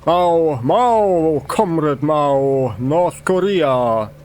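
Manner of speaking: loud outburst, stretching out the last names; mock hysterical scream. Man answering a query suddenly breaks out, mock hysterical scream. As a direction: cry out the slogans in a half-scream. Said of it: "screams hysterically".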